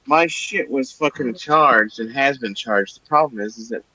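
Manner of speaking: indignant. Real, not acted. Indignant defence of charging.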